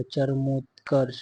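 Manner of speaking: चरमोत्कर्ष slowly, syllable by syllable; careful sounding-out. Shown as a demonstration. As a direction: draw out चरमोत्कर्ष as cha-ra-mot-karsh. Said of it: "ऐसे लिखा जाएगा". (चरमोत्कर्ष, धीरे-धीरे अक्षर तोड़कर)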